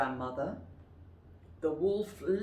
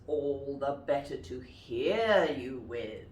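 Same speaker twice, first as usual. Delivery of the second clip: wolf voice; 4 semitones lower than usual. Shown as a demonstration. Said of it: "And the wolf says".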